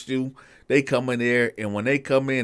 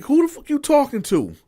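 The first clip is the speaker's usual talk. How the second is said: irritated inmate; faster than usual. Retold or imitated. Woken inmate snaps back.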